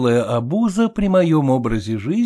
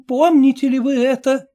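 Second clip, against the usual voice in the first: lightly voiced elderly lady, higher; a stern old woman asking pointedly; a hint of a probing old dame; 10 semitones higher, 4 dB louder than usual. A narrator's reading. Old lady questions the narrator.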